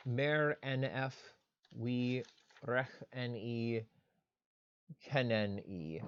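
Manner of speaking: "Mer N F ... kenen E" read out slowly, sound by sound; reading Egyptian aloud. Shown as a demonstration. Teacher reading an Egyptian example to the class, slow and careful. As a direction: spell the Egyptian out slowly for students. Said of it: "so this one translates".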